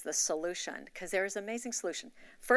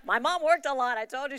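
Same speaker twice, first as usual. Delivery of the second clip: high burst of laughter into speech; laughing; 7 semitones higher, 8 dB louder than usual. Real, not acted. Telling her church about cooking classes, laughing. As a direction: laugh it off, then carry on.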